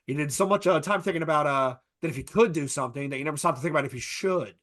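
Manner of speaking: lightly voiced, halting movie-scientist quote; a half-hearted impression with stammering uhs; terrible Jeff Goldblum. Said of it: "that was a terrible Jeff Goldblum impression".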